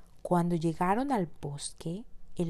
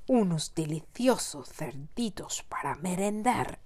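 whispered wolf voice. Acted. Wolf gloats over piglets.

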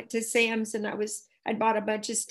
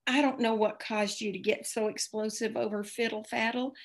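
1 gentle reassurance; 5 dB quieter than usual. Retold or imitated. Friend gently witnesses to stranger.

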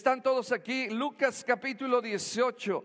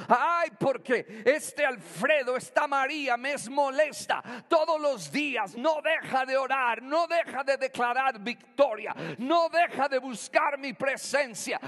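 exasperated judge; 4 semitones higher than usual. Acted. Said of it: "ponle tu nombre".

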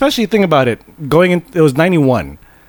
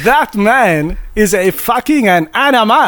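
higher-pitched mock French-Canadian accent; bad French-Canadian accent; 4 semitones higher than usual. Podcaster repeating the film line for laughs, bad French-Canadian accent. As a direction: imitate a clumsy Quebecois accent. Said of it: "really bad impression of Tommy Wiseau".

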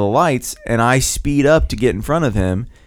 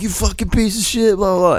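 retold yelling; 7 semitones higher than usual. Driver cursing at the man who won't look, mock yelling. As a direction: re-enact cursing without full volume. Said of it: "I'm yelling".

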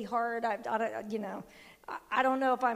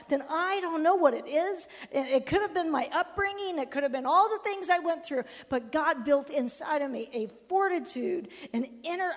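emphatic sermon delivery, raised and driving; impassioned preaching; 3 semitones higher, 5 dB louder than usual. Real, not acted. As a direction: preach it with conviction. Preaches with rising force.

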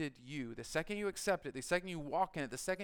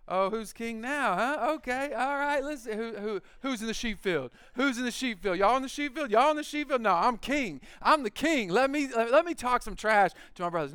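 much higher and louder, a hammed-up boastful taunt, climbing; gloating trash talk; 8 semitones higher, 10 dB louder than usual. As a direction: crow over the brothers like a showoff new king. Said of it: "I'm like".

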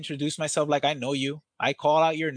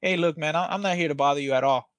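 calming down. Shown as a demonstration. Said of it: "I can kinda get low on it".

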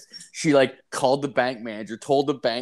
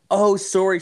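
imitating the teller; 9 semitones higher, 6 dB louder than usual.

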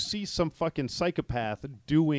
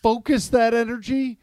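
exasperated plea; 8 semitones higher, 6 dB louder than usual. Retold or imitated. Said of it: "where it's just like".

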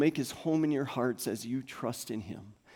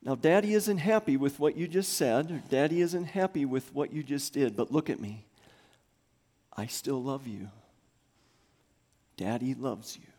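reassuring dad. Retold or imitated. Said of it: "I have told them".

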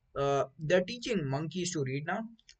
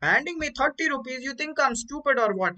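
put-on higher South Indian accent, aggressive; a light South Indian shopkeeper accent; 9 semitones higher than usual. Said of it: "that's my best impression of a South Indian guy".

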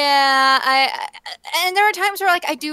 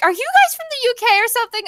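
high, rapid curious question; quick, high-voiced mock curiosity; imitating drive-thru worker; 10 semitones higher, much faster than usual. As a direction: retell a worker's surprised question, pitched up and fast. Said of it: "and they're like".

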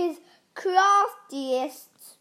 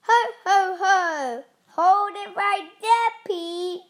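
loud, higher hero's challenge; called out; 4 semitones higher, 5 dB louder than usual. A narrator's reading. Super Potato stopping the evil pea, called loudly. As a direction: boom a "ho, ho, ho" and call a halt. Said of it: "called Super Potato".

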